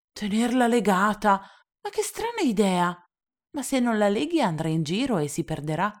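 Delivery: little prince scandalised; boy shocked at tying the sheep; shocked child. Acted.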